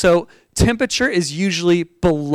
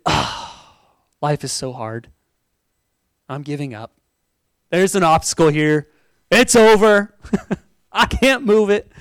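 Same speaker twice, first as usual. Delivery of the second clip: defeated. Shown as a demonstration. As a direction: moan it like you've already quit. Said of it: "Or is it".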